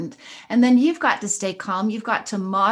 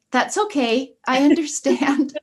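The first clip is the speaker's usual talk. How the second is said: a light smile in the voice, a touch higher; smiling and calm; 5 semitones higher, 3 dB louder than usual. Retold or imitated. A mother smiling calmly at her upset daughter. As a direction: answer the insult with a smile. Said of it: "I just smiled and said".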